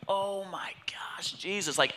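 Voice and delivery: slow, awed whisper; overwhelmed whisper. Retold or imitated. Dad overwhelmed by answered prayer, whispering in awe. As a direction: whisper it as if stunned by the moment.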